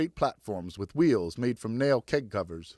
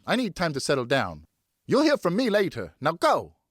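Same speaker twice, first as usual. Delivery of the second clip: distressed firm mother; 2 semitones higher than usual. Acted. Distressed mother sends boys away.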